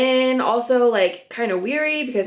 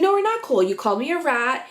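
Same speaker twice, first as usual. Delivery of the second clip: raised voice; 4 semitones higher, faster than usual. Retold or imitated. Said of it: "Rachel starts raising her voice".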